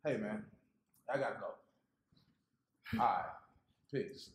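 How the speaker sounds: quiet, low, hurried goodbye; quick sign-off. Acted. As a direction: drop the voice and slow right down. Hastily signs off the headset.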